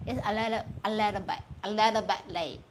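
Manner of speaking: "little bit" with the T left unpronounced; dropped T. Shown as a demonstration. Speaker showing British "little bit late", T not pronounced. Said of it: "don't pronounce the little, the letter T".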